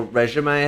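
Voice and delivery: "resume" standing for régime, said ray-zhee-may; alternative pronunciation. Shown as a demonstration. Offering another way to say the term, "resume" as ray-zhee-may. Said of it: "however you wanna say it".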